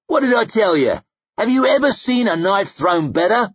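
high, gleeful bragging; gleeful boast. A narrator's reading. Koska boasts after the kill.

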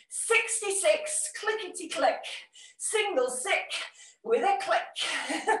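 sing-song bingo call, slow; bingo caller. Retold or imitated. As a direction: call it like a seventies bingo hall. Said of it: "Now I'm turning into a bingo call".

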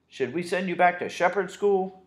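thundering. Acted. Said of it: "he thundered".

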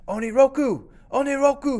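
high, loud triumphant call; joyful shout. Acted. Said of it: "he shouted".

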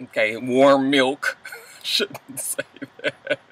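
slow, soft muttered joke; whispered aside. Real, not acted. Commenting on Andrew's nightcap, slow whispered aside. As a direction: murmur it like a secret.

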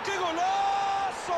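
drawn-out goal cry. Real, not acted. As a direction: hold the goal cry slowly. Gol, grito alargado. (golazo gritado y alargado)

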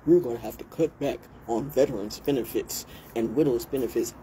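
a hint of a smug official, voiced lightly; mocking a politician. Vlogger mocks politicians who cut veterans' benefits, lightly voiced smug official. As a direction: lightly parody the stupid ones cutting veterans' benefits. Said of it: "will have the nerve to say".

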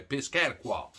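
Piscataqua as pis-CAT-a-kwa, every syllable clear; Piscataqua, the proper local way; Piscataqua said carefully. Shown as a demonstration. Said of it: "That's actually the way it's pronounced".

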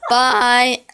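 a cracking adolescent voice. Real, not acted. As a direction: voice breaks on the word. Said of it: "Oh, my voice cracked".

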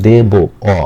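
দে বো with the final ব said with an open অ, not ও; open a ending shown. Shown as a demonstration. Teacher showing students the ending, open অ demo. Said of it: "ব এর শেষে আমি কি উচ্চারণ করছি".

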